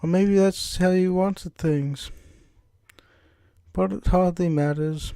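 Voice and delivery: put-on measured British-accented character voice. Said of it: "can't shake this British accent".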